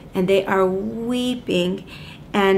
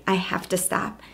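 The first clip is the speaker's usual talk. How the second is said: whispered despair; 5 dB quieter than usual. Retold or imitated. Rita quoted giving up teaching.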